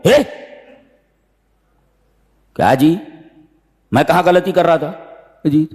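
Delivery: rising into high protest; defensive who-me squabble; blaming each other. Retold or imitated. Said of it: "एक दूसरे को मलामत करने लगी". (एक दूसरे को इल्ज़ाम देते भाई, ऊँची आवाज़ में)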